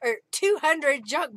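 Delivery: high, loud raffle call; winner announcement. Real, not acted.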